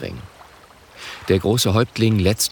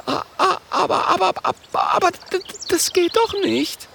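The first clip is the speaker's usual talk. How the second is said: very high stuttering terror; stutter, too scared to finish; panicked stammer. Acted. Mathilda stottert vor Angst.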